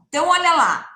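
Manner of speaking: whispered Então, olha lá; conspiratorial teacher whisper; playful whisper. Acted. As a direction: whisper it like a little secret to the class. Teacher hushes before the answer.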